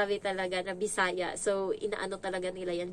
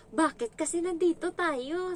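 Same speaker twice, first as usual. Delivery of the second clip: lightly done Bisaya accent, high and slow; 8 semitones higher than usual. Shown as a demonstration. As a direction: put on a Bisaya lilt. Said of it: "kaya-kaya kong gayahin yung". (punto ng Bisaya)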